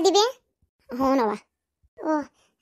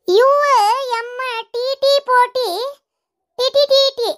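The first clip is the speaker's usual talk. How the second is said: slow spelling out; 8 semitones higher, 3 dB louder than usual. Acted. Reading a report letter by letter.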